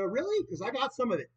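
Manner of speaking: high, taunting "Oh, really?" with a sharp upward jump on "really"; mocking retort. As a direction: throw it back at them with a smirk. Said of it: "I said".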